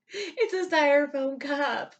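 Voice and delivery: loud, slow disbelief; incredulous outburst. Real, not acted. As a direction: shout it like it's absurd.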